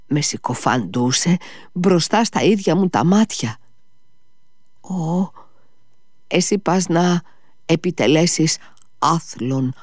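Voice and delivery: high-pitched, wounded indignation; indignant Ivan. A narrator's reading.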